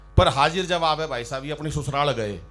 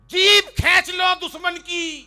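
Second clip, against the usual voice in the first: high, slow, bellowing mock recital; mocking veer ras poet; 12 semitones higher, 7 dB louder, slower than usual. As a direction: ham it up like a fiery patriotic poet. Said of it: "ये सब लोग मतलब ये बोलते हैं".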